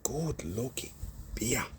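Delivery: hushed, admiring whisper of the neighbours; the whole street murmuring approval; neighbours agreeing. Retold or imitated. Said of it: "looking at everyone going".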